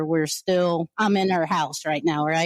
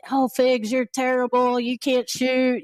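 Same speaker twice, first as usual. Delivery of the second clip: higher mock taunt from the crowd; imitating a heckler; 5 semitones higher than usual. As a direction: jeer like a fan in the stands. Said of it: "somebody was heckling me".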